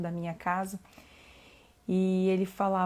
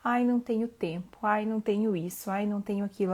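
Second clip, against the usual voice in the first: mock excuse-making; 2 semitones higher, 4 dB louder than usual. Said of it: "de dar de desculpinha".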